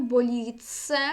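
боліце with a long held ц. Shown as a demonstration. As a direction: hold the ц in боліце. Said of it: "«ц» подовжне". (боліце з подовженим ц)

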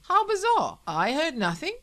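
high, affected polite astonishment; urbane. Acted. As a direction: feign innocent surprise grandly. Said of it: "said Hager urbanely".

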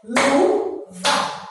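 "Luva" split into two beats, first drawn out; syllable by syllable. Shown as a demonstration. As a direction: beat out "Luva" as Lu, pause, va. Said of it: "Vamos bater palminha".

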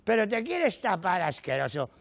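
lightly voiced wife telling him off; embarrassed wife. Wife scolding husband who walked in naked, mock disgusted. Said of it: "les da vergüenza y te dicen".

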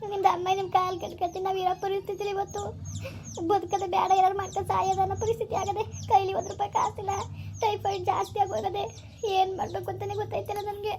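desperate sister begging on the phone, tearful; tearful pleading. Acted. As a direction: beg through quiet tears. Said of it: "ಅಳ್ಬೇಡ".

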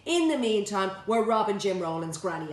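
shouting. Acted. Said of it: "I shouted".

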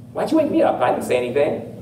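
woken-up Eli. Acted. Eli answers Samuel who woke him up, mildly put out. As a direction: lightly play someone roused from sleep.

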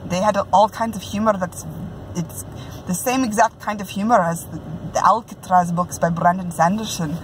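a lightly put-on Scottish brogue, amateur attempt; Scottish accent, self-consciously hammed. Reviewing a book in a playful Scottish brogue. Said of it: "in my best Scottish brogue".

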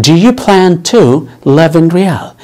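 very slow, each word spaced for learners; slow teaching read. Shown as a demonstration. Teacher models the question slowly for Arabic learners. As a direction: spell it out slowly for the class. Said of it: "هل تخطط أن تدرس؟".

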